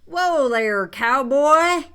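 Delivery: loud, rising cowboy holler; yelled game call. Shown as a demonstration. Presenter announcing the game's title, yelled. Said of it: "you yell out".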